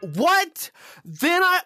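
high startled squeal; startled yelp. Real, not acted. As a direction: jump out of your skin. Sudden scare, voice jumps.

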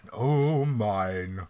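sing-song mock of mine; mocking echo. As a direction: tease the player's possessiveness. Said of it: "She's mine".

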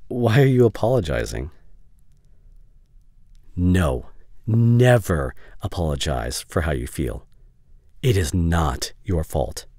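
firm, insistent, slowing on the reassurance; forceful but caring, pressing each word; aggressive. Acted. Telling a friend never to apologize for feelings, mildly aggressive. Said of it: "sorry for getting aggressive there".

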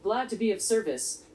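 flat, even robot delivery; robot monotone voice. Acted. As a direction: speak like a calm little robot. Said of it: "I'm just a robot".

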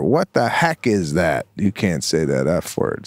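low, firm parental correction; stern dad voice. Retold or imitated. Dad correcting his swearing daughter, low and stern. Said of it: "and I go".

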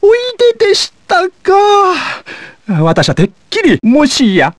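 butler voice. Acted. Butler character game lines.

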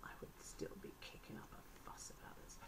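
quick, hushed whisper; whispered aside. Real, not acted. Buyer confiding in viewers about her complaint, whispered. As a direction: whisper it fast, like a confession.

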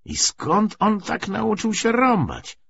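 high, slow jeering question; drawn-out taunt; teasing mockery. A narrator's reading. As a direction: poke fun at a comrade, voice pitched right up.

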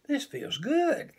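little cub swimming happily, a pleased high voice; happy cub. Acted. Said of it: "thought Little Bear".

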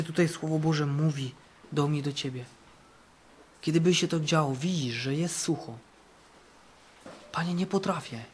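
ordinary talk, nothing marked

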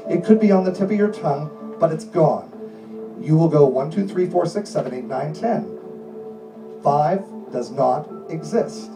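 steady, insistent hypnotist delivery; hypnotic suggestion voice. Acted. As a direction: lull them in with firm calm commands.

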